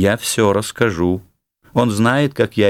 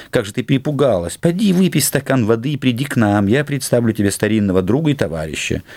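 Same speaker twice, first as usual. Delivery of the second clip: higher-pitched, easy cheerful coaxing; breezy reassurance; 4 semitones higher than usual. Acted. Count sending frightened wife for water, breezily reassuring. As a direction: make light of it to calm her.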